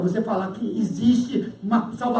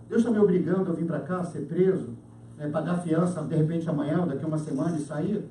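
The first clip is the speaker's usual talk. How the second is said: calm acceptance; 6 semitones lower, 5 dB quieter than usual. Acted. Acted calm reasoning of the arrested man.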